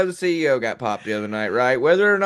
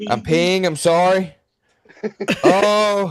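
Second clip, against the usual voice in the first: put-on pleading, apologetic voice. Retelling how a man lay on the floor after being tased: imitating a man lying on the floor apologizing. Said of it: "he lays in the floor going".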